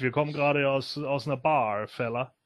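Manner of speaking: slurred, tipsy words; drunk slurring. Retold or imitated. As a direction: slur it like you've had a few. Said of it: "er lallt schon".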